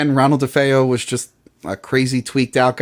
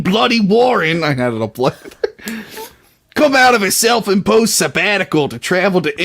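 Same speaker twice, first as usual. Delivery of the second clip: put-on British accent drifting Australian; 5 semitones higher than usual. Finishing the synopsis for co-host, in a British accent that slips Australian. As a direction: lean on bloody like a Cockney, then let it go Aussie. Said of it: "it always turns into Australian".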